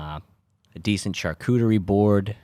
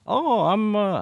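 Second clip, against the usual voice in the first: sudden much higher voice, dropped at once; Kim Jong-un voice, cut off; 3 dB louder, slower than usual. Retold or imitated. Joking about the North Korean leader, starting a high mock voice. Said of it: "I'm not gonna do an accent".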